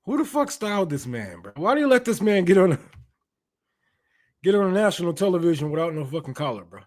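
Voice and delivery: high, loud disbelief at the outfit; roasting the man's clothes, outraged and high; incredulous roast. Real, not acted. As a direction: clown his clothes in mock outrage.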